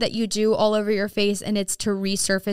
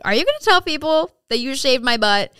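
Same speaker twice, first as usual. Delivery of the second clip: playful question; 5 semitones higher, 5 dB louder than usual. Retold or imitated. Retold teasing question to technician.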